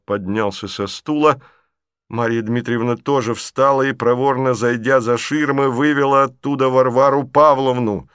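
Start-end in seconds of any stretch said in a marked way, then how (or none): none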